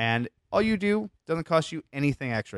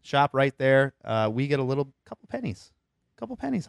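pitchman voice. Acted. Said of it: "Is it the Pitchman voice?".

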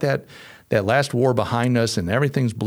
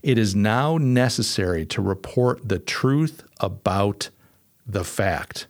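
quoted reading; slower than usual. Shown as a demonstration. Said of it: "I'm reading".

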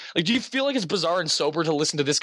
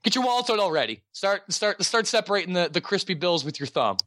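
higher, faster hype-man push; hyped-up pitch; 3 semitones higher than usual. Acted. Host hyping the Patreon to listeners, fast and excited. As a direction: rev them up like a pitchman. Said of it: "pushing listeners to Patreon".

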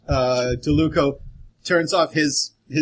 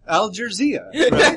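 mock Jersey accent, higher and laughing; 6 semitones higher, 4 dB louder than usual. Joker mistaking Al Jazeera for Jersey, Jersey accent. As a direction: laugh through a put-on Jersey twang. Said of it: "I thought that was Jersey".

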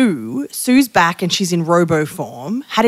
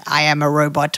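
robot voice; 3 semitones lower than usual. Retold or imitated.

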